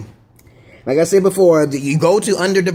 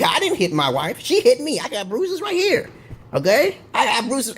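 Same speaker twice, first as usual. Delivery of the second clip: mock victim husband; 4 semitones higher than usual. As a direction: play the wronged husband for the judge, pleading. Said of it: "And you be like".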